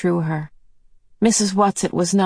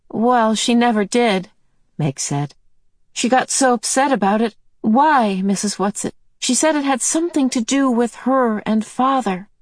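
put-on excited girl; 6 semitones higher than usual. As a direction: tumble it out eagerly. Meg explains excitedly.

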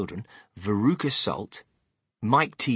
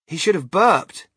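a louder, higher Charlie; lightly voiced Charlie; 7 semitones higher, 8 dB louder than usual. A narrator's reading. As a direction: pipe up as Charlie. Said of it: "Charlie said".

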